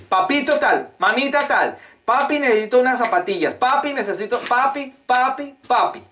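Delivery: put-on high, pleading little child voice; child begging. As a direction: beg like a small child tugging at dad. Children begging their parents. (niño suplicando con voz aguda)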